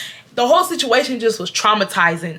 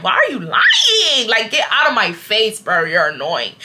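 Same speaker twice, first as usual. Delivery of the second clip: mock angry. Woman retelling snapping at the employee, mock outrage. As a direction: play the indignant customer, pitched up. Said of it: "I'm like".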